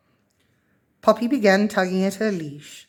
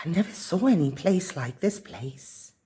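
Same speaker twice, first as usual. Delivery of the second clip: put-on hushed, softer child's awe; almost whispering; 5 dB quieter than usual. A narrator's reading. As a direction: breathe it out, half a whisper. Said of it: "almost whispering".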